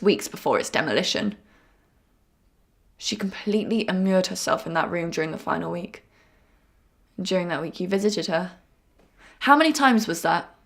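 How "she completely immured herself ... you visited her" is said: hushed whisper. Acted. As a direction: whisper it, almost without voice. Confession of a chilling detail.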